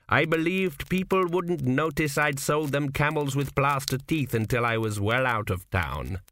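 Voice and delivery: put-on a sly old man in a dream, unhurried; a hint of a wry old founder; old ancestor Kuft. Kuft confesses his swindle.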